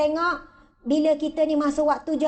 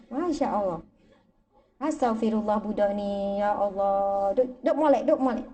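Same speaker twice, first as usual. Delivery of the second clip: exasperated scolding; 6 semitones lower than usual. Retold or imitated. Scolding the grandchild.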